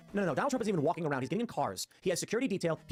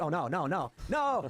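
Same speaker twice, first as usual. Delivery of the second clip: mock horrified no; much slower than usual. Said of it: "you're gonna be like".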